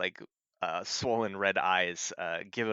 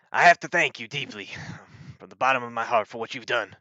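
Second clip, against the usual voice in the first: lightly voiced sheriff, earnest thanks; a touch of solemn gratitude from a town lawman; grateful sheriff; 4 semitones higher, 7 dB louder than usual. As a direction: give formal heartfelt thanks, a little higher and louder.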